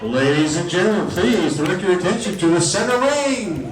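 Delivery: loud, high circus announcer call; ringmaster. Acted. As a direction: boom it out under the big top. Announces circus clown act.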